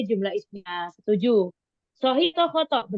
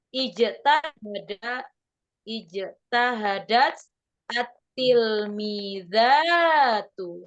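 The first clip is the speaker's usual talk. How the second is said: slow reading; much slower than usual. Shown as a demonstration. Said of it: "pelan-pelan".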